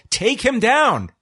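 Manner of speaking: high, drawn-out mock yell; retold yell. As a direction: imitate a ringside yell, slow and high-pitched. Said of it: "Scarlett yelled".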